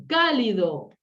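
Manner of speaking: "Cálido" with CÁ punched, falling after; stress on first syllable. Shown as a demonstration. Teacher classifying an esdrújula word, first syllable punched. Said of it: "esdrújula".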